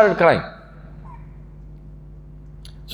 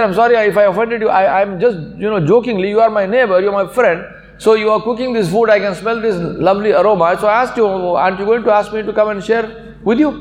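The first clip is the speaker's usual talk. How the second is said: higher-pitched, earnest explaining; apologetic retelling; 5 semitones higher than usual. Retold or imitated. Cobbler explains himself to his crying neighbour, apologetic.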